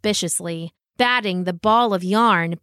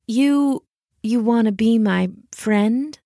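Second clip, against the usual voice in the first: lightly voiced cat, halting in disbelief; hesitant cat; slower than usual. Cat hearing the dog's offer of friendship, hesitantly surprised.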